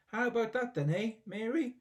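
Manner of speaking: high, loud gleeful shout. A narrator's reading. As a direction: crow it down from the roof. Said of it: "Grandma shouted".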